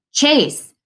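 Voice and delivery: high-pitched warning cry; rasped warning. A narrator's reading. Narrator warns friend about the swung vacuum, urgent warning. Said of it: "I rasp a warning".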